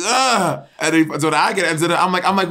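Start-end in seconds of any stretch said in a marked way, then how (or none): 0.1-0.6 high mock groan of effort; high, exasperated retold "ugh"; imitated groan. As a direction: groan like a flailing skier. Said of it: "Bob was like".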